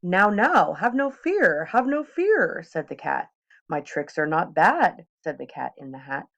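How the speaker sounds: put-on an eager showman cat tempting the kids; playful cat showing off tricks; cat in the hat. Cat reassures and boasts.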